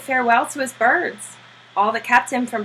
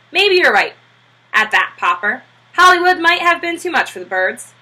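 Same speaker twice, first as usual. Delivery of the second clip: Klein voiced. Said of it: "said Mister Klein".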